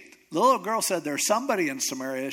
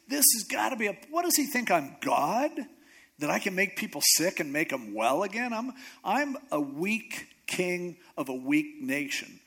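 high-pitched acted panic at the start, easing down; freaking out; 4 semitones higher than usual. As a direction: play an alarmed king venting in disbelief. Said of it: "So the king's freaking out".

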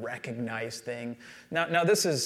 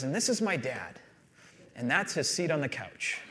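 understated, softer, unimpressed daughter; offhand introduction; 5 dB quieter than usual. Retold or imitated. Daughter introducing dad to her friend, offhand imitation. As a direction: toss it off with no enthusiasm. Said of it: "and she goes".

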